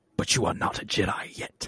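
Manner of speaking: breathy, hissed whisper under the breath. Retelling a favorite line delivery from The Empire Strikes Back, hissing James Earl Jones impression. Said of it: "And then he like hisses".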